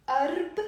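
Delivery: أرب said on its own, cut before the final ع; split syllable demo. Shown as a demonstration. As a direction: break أرب off from the ع. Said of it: "So I'm saying أرب".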